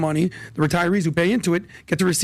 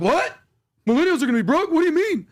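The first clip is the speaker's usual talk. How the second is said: much higher, incredulous questions; retold confusion; 10 semitones higher than usual. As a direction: act baffled, pitch jumping up. Retelling confusion at conference.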